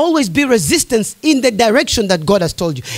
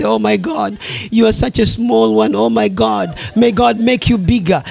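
mock pitying pastor; 5 semitones lower than usual. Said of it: "pity you and say".

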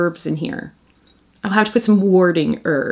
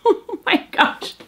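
high breathy whisper of awe; breathless whisper; 11 semitones higher than usual. Real, not acted. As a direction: gasp it out in wonder.

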